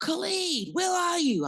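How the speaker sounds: screaming, pitched way up. A mother retells calling her son on his cell phone, re-enacting screaming into the phone. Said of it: "I'm like screaming into the cell phone".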